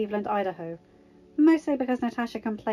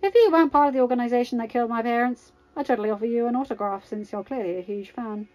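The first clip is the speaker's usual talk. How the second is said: smug retort; 5 dB louder than usual. Acted. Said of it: "Tony answered".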